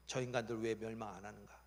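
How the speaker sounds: low, slightly subdued grumble; acted mild sulk; sulky grumbling. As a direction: complain under your breath. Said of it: "뿌르퉁해가지고".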